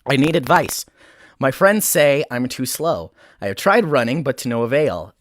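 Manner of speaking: solemn, deliberate letter-reading; serious reading. Acted. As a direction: read the turtle's plea with mock gravity. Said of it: "treat this seriously".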